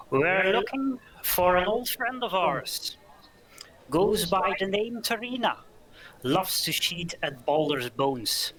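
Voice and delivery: rough voice hollering up to the room; loud rough tavern brute. Acted. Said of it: "loud and rough voice".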